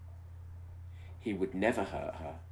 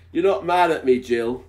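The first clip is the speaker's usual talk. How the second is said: high man's voice; 6 semitones higher, 13 dB louder than usual. Acted. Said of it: "I don't think that was a very anxious voice".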